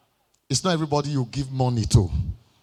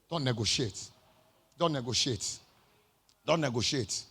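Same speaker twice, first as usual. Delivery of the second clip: "Don't negotiate" dropped much softer, low; hushed repeat; 4 semitones lower, 10 dB quieter than usual. Shown as a demonstration. Preacher drilling the words into listeners, hushed. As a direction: let it sink in almost hushed. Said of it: "What did I say?".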